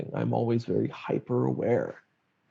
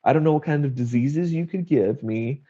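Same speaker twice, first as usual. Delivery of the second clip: mock irate dad; 3 semitones higher than usual. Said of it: "he calls me irate".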